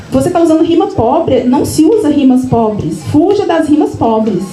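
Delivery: imitated critique, slowing into firm rules; disapproving teacher. Literature teacher correcting a student's poem, disapproving. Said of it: "na entonação dela, ela não gostou".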